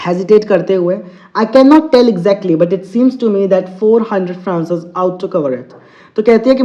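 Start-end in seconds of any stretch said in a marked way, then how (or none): 1.4-5.7 slow, deliberate English reading; teacher reading a story to students, very slow; slow read-aloud. Acted. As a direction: read each word out slowly for the class. Teacher reads story text aloud.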